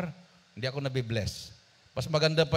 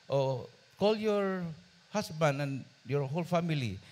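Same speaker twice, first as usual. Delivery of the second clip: softened voice; 3 semitones higher than usual. Retold or imitated. Kind employer inviting the maid's family. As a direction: offer it kindly, drawing out the start. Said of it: "Lumambot ang boses".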